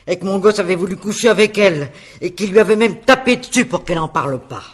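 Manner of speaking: rising anger against the dead bru; furious accusation. Acted. Old mother to the inspector, furious.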